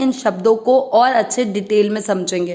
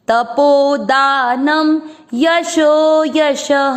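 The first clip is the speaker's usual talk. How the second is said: slow chanted verse, a little raised; Sanskrit recitation; 2 semitones higher, much slower than usual. Shown as a demonstration. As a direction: recite the half-line slowly for students. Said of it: "second चरण repeat".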